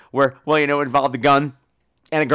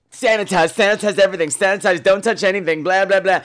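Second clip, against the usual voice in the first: mock germaphobe nagging; 4 semitones higher, 4 dB louder than usual. Mocking germaphobes.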